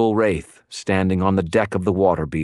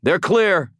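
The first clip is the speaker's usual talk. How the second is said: high, urgent call; crying out; 13 semitones higher, 3 dB louder than usual. A narrator's reading. Wizard tells allies the women are clear, high cry. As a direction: call it out over the fight. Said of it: "I cried".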